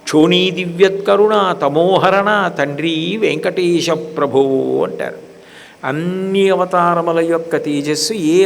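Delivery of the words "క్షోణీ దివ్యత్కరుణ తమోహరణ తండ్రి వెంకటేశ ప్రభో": slow, measured chanting of divine names; devotional recitation. Acted. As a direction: intone the invocation reverently. (భక్తితో నెమ్మదిగా స్తోత్ర పఠనం)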